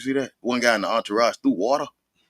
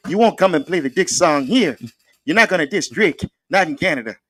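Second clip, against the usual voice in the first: mock Canadian accent; 7 semitones higher than usual. A friend hams up a Canadian bouncer scolding a rapper in Canadian accent. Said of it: "It was the Canadian accents for me".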